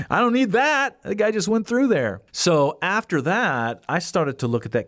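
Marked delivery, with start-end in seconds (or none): 0.1-2.2 higher, stunned disbelief; mock awed truck guy; amazed. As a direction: marvel at what he just did.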